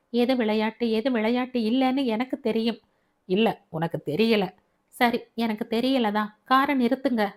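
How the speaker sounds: lightly voiced young woman insisting; insistent daughter. Daughter demands her father stop the car, insistent.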